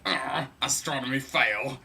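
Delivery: a hint of a scornful teen; angsty teenager. Angsty teen mocks his father's star lore in a lightly voiced sneer. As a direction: scoff like a sulky teenager. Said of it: "being an angsty teenager, I went".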